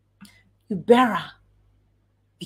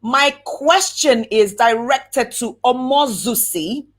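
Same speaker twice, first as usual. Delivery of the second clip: measured, formal address, name given its place; clear formal question. Shown as a demonstration. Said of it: "always mention the name".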